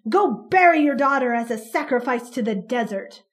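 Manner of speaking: loud, contemptuous spitting of words; police chief spitting scorn at the mother; spat. Acted. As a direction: spit the threat at her.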